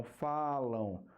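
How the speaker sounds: "falam" drawn out slowly so the final nasal u glide is heard; showing the sound. Shown as a demonstration. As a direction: stretch "falam" towards its closing u sound. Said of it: "mas qual é o som?".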